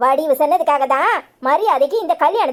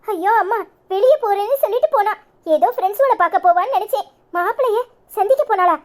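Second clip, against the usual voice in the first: flustered pleading; 5 semitones higher than usual. Acted. Bride's mother pleads, flustered.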